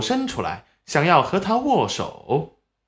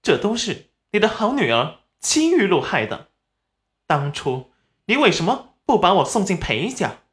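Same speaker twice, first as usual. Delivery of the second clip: cold; 6 semitones higher than usual. A narrator's reading. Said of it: "语气冷漠地说道".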